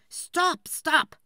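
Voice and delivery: loud, fed-up yell that ends in a wish; exasperated outburst. Acted. Woodcutter fed up with his wife, loud angry outburst. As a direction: snap and shout him down.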